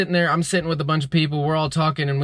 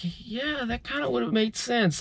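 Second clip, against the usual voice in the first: soft sleepy voice; 9 semitones higher, 7 dB quieter, slower than usual. Retold or imitated. Sleepy dream logic voiced.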